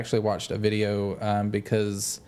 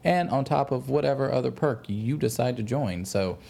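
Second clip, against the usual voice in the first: slick sales pitch voice; used car salesman. Acted. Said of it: "you sound like a used car salesman".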